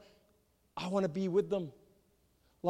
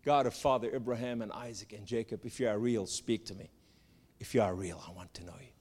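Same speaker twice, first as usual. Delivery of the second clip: pleading prayer; 6 semitones lower, 4 dB quieter than usual. Retold or imitated. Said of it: "I cried with everything within me".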